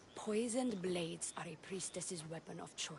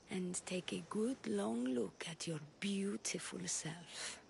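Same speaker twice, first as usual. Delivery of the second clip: flirtatious whisper. Acted. Flirting with the hero.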